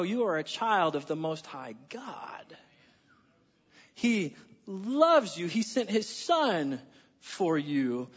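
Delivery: slow, hushed whisper of comfort; tender reassurance. Real, not acted. Pastor assuring the church of God's love, whispered. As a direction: tell them gently they are loved.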